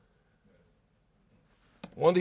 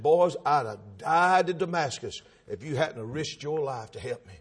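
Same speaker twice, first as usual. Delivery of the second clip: soft, low acted thanks; humble gratitude; 7 semitones lower, 6 dB quieter than usual. Paul thanking the disciples who risked their lives, humbly. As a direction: sink to a hushed, indebted tone.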